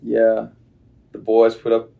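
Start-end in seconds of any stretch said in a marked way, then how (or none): 1.1-1.9 put-on louder, drawling Southern American accent. Meant to be California but it comes out as a Southern accent. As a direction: talk about last night's game like a Southern ballplayer. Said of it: "oh, that was Southern".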